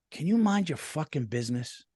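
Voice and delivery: "Can you mind your fucking business?" snapped rudely with the curse; cursing rudely. Retold or imitated. Retelling what he told his wife, mock rude retort. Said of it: "I knew I shouldn't have cursed".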